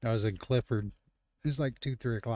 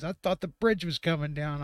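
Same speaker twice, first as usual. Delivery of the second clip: retold alarm; 6 semitones higher, 4 dB louder than usual. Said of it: "And he goes".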